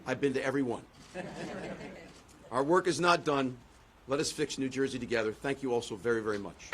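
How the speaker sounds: rousing podium speech with rhythmic repeats; formal speech. Acted. Candidate thanking supporters from the podium, formal speech. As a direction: deliver it like a rally speech to the crowd.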